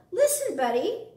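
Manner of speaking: mother calls out to get his attention; mother calling. A narrator's reading. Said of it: "Buddy's mother said".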